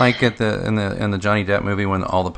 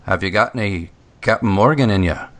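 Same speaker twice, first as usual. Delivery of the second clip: cheesy pirate pickup line; 2 semitones higher than usual. Retold or imitated. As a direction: ham up a rogue hitting on a barmaid. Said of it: "look at a comely lass and say".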